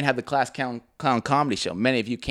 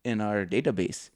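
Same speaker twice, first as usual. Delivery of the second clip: Hassan; 4 semitones lower, 4 dB quieter, slower than usual. Retold or imitated. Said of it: "and he goes".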